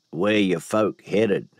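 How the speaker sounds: slow, thick voice with swallowed vowels; swallowed dark vowels. Acted. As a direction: say it slowly as if swallowing the words. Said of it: "in a voice like he'd swallowed bear shite".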